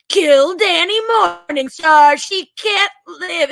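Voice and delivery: slow, loud menacing command; sinister order. Retold or imitated. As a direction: intone the kill order slowly.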